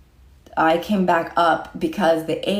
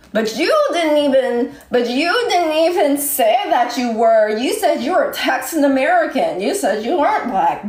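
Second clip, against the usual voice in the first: heated; 5 semitones higher than usual. Real, not acted. Heated rebuttal.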